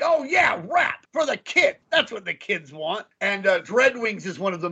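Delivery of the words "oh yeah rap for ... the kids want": high mock excited old guy; hammed-up clueless old executive; old dudes in a room. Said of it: "sitting around in a room and being like".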